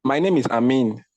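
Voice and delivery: My name is Amin, with Amin said clearly as a-MIN. Shown as a demonstration. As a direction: introduce yourself spelling out Amin by ear. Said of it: "please pronounce your name for me".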